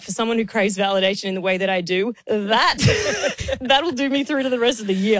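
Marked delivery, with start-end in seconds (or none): 2.3-5.2 laughing. Real, not acted. Joking about craving validation.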